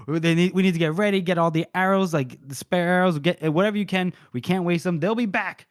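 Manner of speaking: lightly acted urgent commander; urgent orders. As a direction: rattle off orders before the next attack. Leader rallies fighters for next attack.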